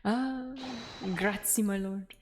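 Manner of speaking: put-on Italian accent. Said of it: "he's definitely Italian".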